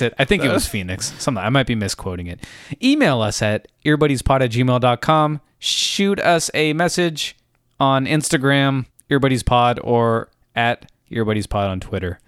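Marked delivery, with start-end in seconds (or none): 2.8-12.2 stiff robot voice reading an email address. Pretend. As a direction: mechanical announcement voice. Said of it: "I'm just gonna do a robot voice".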